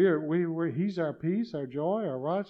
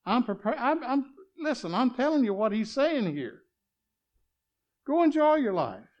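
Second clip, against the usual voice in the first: excited preaching; 7 semitones higher, 3 dB louder than usual. Real, not acted.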